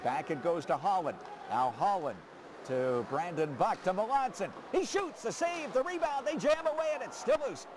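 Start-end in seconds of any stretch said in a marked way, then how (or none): 4.7-7.7 high, quick, urgent calling; excited play-by-play. Real, not acted. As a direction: ride the scramble. Scramble in front of net.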